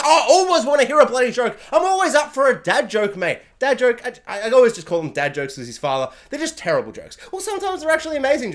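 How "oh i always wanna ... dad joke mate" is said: cheerful. Retold or imitated. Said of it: "She's like".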